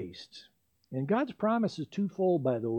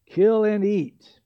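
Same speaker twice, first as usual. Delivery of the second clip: slow, weighty commanding voice, rising louder; the Lord's slow solemn command to Peter; voice of God; 2 semitones higher, 6 dB louder, slower than usual. Retold or imitated. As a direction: boom it out slowly like a voice from heaven. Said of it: "A voice came to him".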